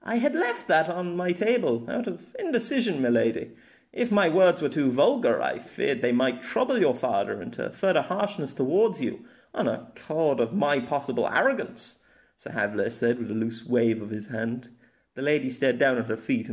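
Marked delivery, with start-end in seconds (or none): 0.0-12.0 higher, deferential knight explaining himself; courtly knight. Acted. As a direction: explain it apologetically to a lady.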